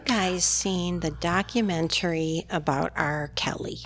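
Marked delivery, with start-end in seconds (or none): 1.7-3.8 whispering. Real, not acted. Hushed mention of R. Kelly.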